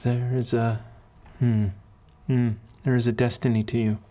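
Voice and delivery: a hint of an accented matron; kindly accented mentor. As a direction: counsel a child with long, considered pauses. Voices the accented woman mentor.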